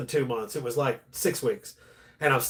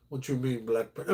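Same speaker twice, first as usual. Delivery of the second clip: lightly put-on Russian accent, a little quieter; a hint of a Russian accent, broken English; Russian neighbor accent; 3 semitones lower, 7 dB quieter than usual. Neighbor inviting him into the yard, mild Russian accent. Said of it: "that's how they talk".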